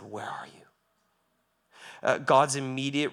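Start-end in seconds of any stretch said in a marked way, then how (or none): 0.0-0.6 God calling. Acted. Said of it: "and said".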